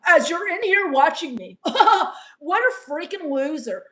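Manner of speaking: can't hold back the laugh at the irony; laughing back at the chatter who insulted her; laughing at them. Real, not acted.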